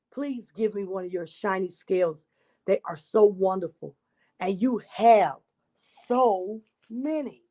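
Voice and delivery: put-on lively read-aloud for children; storybook narration. A narrator's reading. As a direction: tell it like a picture book to a class. Reads picture book to children.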